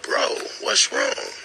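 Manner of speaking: high, slow, breathless concern; worried whisper. Retold or imitated. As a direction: ask him what's wrong in a hushed, high voice. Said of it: "I'm like".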